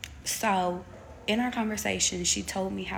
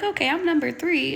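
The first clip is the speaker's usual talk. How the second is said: imitating herself nervous; 8 semitones higher, 7 dB louder than usual. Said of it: "I was like".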